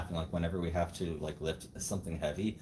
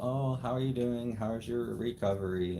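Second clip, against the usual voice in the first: slightly higher, concerned check-in voice; lightly voiced manager asking after someone; quoted manager; 4 semitones higher than usual. Manager checking in on his recovery, lightly imitated. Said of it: "and she's like".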